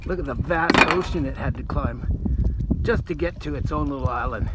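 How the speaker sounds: Aussie croc hunter host voice; nature documentary. Pretend. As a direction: narrate like an excited wildlife presenter. Steve Irwin style wildlife host bit.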